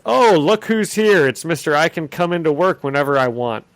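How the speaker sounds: mocking editor voice; mock Jonah Jameson. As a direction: sneer at the late employee. Jonah mocking Peter arriving late.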